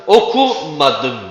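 slow "Okumadım" with ku stressed. Shown as a demonstration. Teacher showing the stress of "Okumadım". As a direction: lean on ku in "Okumadım" before the negative. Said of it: "Ku'da olacak".

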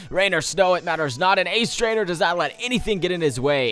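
grand ace trainer. Acted. Reading ace trainer dialogue dramatically.

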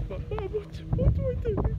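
put-on very high, loud panicked kid; panicked child. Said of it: "So I just went".

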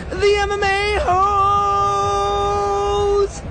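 high hype call of a nickname; hype shout. Acted. Vlogger cheering his friend's nickname.

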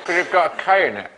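talking around a pencil in the lips. Real, not acted. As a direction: speak with a pencil held in your lips. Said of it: "holding them only with your lips".

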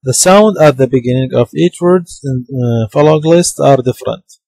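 slow, careful reading of the English line; teacher dictating from the textbook slowly; slow dictation reading. Shown as a demonstration. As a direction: read it out word by word for students to follow. Reads English text slowly aloud.

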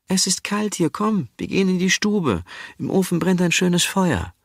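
high urging wife; coaxing wife. Acted. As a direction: call him gently but urgently into the warm room. Sinje urging Asle inside.

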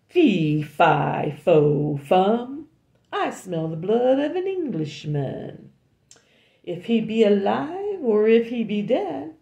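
loud, booming giant chant; giant roar. Acted. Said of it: "the monster roared out".

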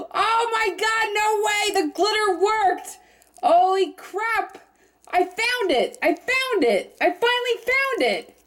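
shrieking with real delight at the find; thrilled. Real, not acted. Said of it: "I'm so excited!".

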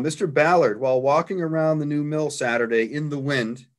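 measured read-aloud of a written account, easing down at the close; reading a quoted report to an audience. Real, not acted. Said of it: "I'll just read the account".

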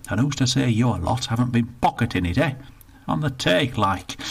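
put-on indignant old northerner, rushed in the middle; grumpy old Bertie. Bertie complains to the attendant, indignant grumble. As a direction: grumble about the lost pound.

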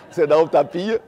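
amused repeat with a laugh. Shown as a demonstration.

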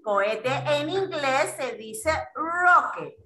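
slow, drawn-out classroom delivery; slow teaching model. Shown as a demonstration. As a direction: introduce the English word slowly for children. Teacher modelling new word for children.

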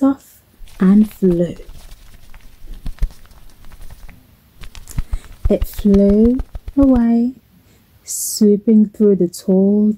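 gentle lilting storybook narration; measured storyteller with expressive emphasis; children's storytelling. Acted. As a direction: tell it to little ones, phrase by phrase.

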